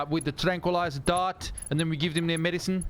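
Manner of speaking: put-on high South African accent; South African ranger. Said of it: "sounding like a very angry sort of range, like, ranger".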